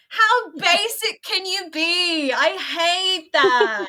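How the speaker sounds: slow scornful disbelief. Real, not acted. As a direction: drawl it out with disdain. Mocking the cliche.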